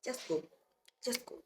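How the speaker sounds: hushed, near-breaking just go; a mom fighting tears, voice almost gone; holding back tears. Retold or imitated. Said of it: "when she feels like she's about to cry".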